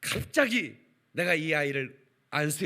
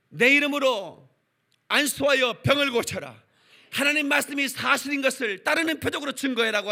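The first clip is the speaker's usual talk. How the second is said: commanding voice of God; 8 semitones higher, 8 dB louder than usual. Acted. God commanding the preacher to heal the sick.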